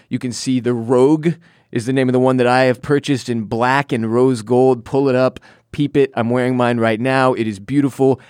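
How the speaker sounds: upbeat sponsor read; host reading a sponsor spot, lively ad delivery. Acted. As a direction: sell the watch, confident and smooth.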